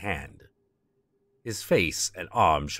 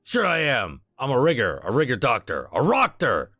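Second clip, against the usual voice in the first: put-on Midwestern accent; 5 semitones higher, 5 dB louder than usual. Voices Ambrose.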